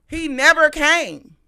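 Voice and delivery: loud, drawn-out outrage; slow, high, exasperated exclamation; indignant. Real, not acted. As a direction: raise pitch and volume, stretching each word. Indignant repeat about the no-show.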